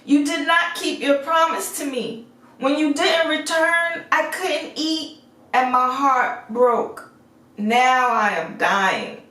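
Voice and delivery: a dying beast reproaching her gently; dying beast, gasping. A narrator's reading. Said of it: "the beast opened his eyes and gasped".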